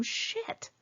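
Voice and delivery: a breathy unvoiced curse under the breath; quick hushed swear of annoyance; muttered curse. Real, not acted. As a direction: spit it out quietly in dismay, barely voiced. Paparazzi snap her picture.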